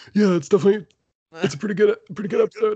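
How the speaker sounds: acted breathless speech. Retelling replying while holding their breath for hiccups, imitating catching one's breath. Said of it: "me trying to catch my breath but being subtle".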